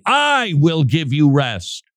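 "I" stretched out and stressed, slow line; emphatic I. Acted. Preacher quoting Jesus' promise, slow with emphatic "I". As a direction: proclaim it slowly, weight on "I". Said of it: "it's almost like a shouting".

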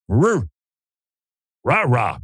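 barking ape impression. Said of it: "and he goes".

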